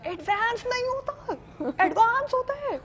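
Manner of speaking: high, mocking director's voice; director correcting. Director scolding a nervous new actress, high and mocking. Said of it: "Saifi भाई".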